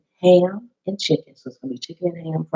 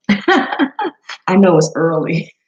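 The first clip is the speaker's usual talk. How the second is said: slow words through a laugh; 4 dB louder, much slower than usual. Real, not acted. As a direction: chuckle it out. Laughs greeting viewer.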